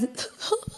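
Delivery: imitated sobbing intake of breath; soft mock sob; mock crying gasp. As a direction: act out a sudden little sob, high and unvoiced. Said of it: "then when it's time to cry".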